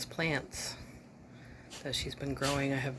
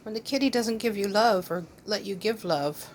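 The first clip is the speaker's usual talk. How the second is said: high, louder sing-song pet talk; talking to the dog in a sweet higher pet voice; 7 semitones higher, 6 dB louder than usual. Real, not acted. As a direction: coo sympathy to the frustrated dog.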